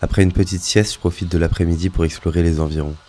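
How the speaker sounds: composed, scripted travel-diary reading; voice-over narration. A narrator's reading. Traveller recounts the volcano trip, composed voice-over narration. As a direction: narrate it like a lyrical travel journal.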